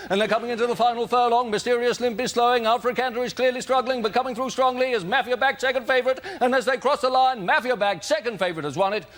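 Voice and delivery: brisk, rising racecourse commentator; race commentary. Pretend. Panel player calling a mock horse race, building commentary. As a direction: call the race like a track announcer.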